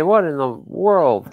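high, slow, amazed; surprised. Real, not acted. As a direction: gasp at the custom toy. Seeing the custom figure.

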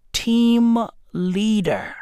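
slow, straight-faced reveal; imitating wife's deadpan answer. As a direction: deliver it dead serious, drawing out each word. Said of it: "dead in the eyes with a straight face".

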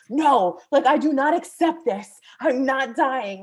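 firm, emphatic refusal, re-enacted; retold defiance. Teller fighting death in a retold vision, defiant.

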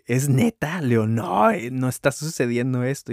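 can't believe what he's seeing; disbelief. Retold or imitated. Disbelief at the stolen jar.

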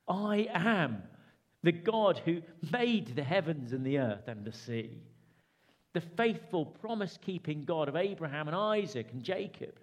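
lightly voiced Jesus reassuring his disciples; voicing Jesus. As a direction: proclaim it as Jesus would.

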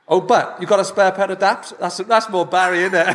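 lightly Welsh Valleys lilt; Welsh Valleys accent. Shown as a demonstration. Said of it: "a bit of a Welsh accent".

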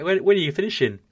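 high, loud, flustered stammer; a homeowner flustered at the builders, high and loud; flustered asking. Retold or imitated. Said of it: "And I was like".

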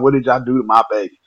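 fast, alarmed plea; worried mother. Retold or imitated. Mom finds her son limp on the porch, alarmed. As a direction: ask it in rising panic.

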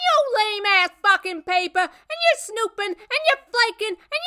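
high-pitched furious tirade; shrill, relentless outraged rant, piling up grievances; screamed. A narrator's reading. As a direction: scream at an ex who crashed the party. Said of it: "and screamed at him".

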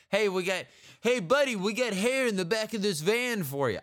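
pushy New Yorker calling a stranger over; New York street-hustler pitch; New York accent. Acted. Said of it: "this is a New Yorker that's telling me".

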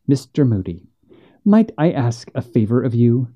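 forced calm, measured and steady; even tone. Acted. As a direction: hold the anger under a level voice. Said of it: "in the evenest tone she could manage".

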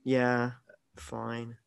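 trailing off into a soft, grudging "fine"; unimpressed agreement. Real, not acted. Host echoing co-host's verdict on the acting, unimpressed. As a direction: agree with faint, dismissive praise. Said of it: "don't make it sound like that".

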